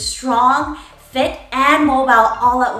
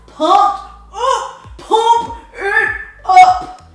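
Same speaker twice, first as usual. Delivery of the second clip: laughing; 7 semitones higher, 6 dB louder, much slower than usual. Real, not acted. Pumping chant while laughing.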